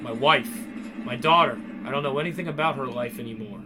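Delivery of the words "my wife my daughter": anguished. Acted. Despairing over lost family.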